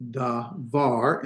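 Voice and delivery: "da var" with the emphasis on "var"; stress on var. Shown as a demonstration. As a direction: split "da var", leaning on the final "var".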